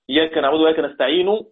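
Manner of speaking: نستعين read with its final damma sounding; full final vowel. Shown as a demonstration. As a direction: recite نستعين with a u ending. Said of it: "recitation with vowel".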